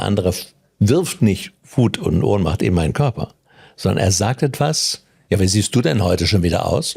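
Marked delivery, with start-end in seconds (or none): 5.3-7.0 sneering jab at someone's looks; lightly voiced snide remark; mocking jibe. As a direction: needle them with a snide question. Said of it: "als Beispiel mit der Betonung".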